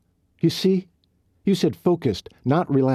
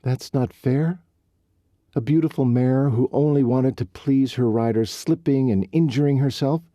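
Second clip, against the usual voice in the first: higher and louder, rising indignation; upset outburst; 7 semitones higher, 4 dB louder than usual. Acted. Riley venting her hurt at Colt, indignant and loud. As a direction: pour out every unfair thing, hurt and angry.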